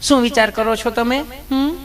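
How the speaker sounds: high, sugary nurse voice, teasing; sweet nurse voice. Acted. Nurse sweetly questions nervous Gabho, high cooing voice. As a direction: coo at him like an overly sweet nurse.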